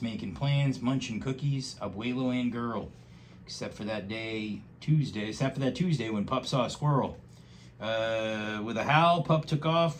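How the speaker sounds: lively rhyming storybook read; reading to a child. Acted. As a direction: read it aloud with bouncy rhythm. Reads picture book aloud.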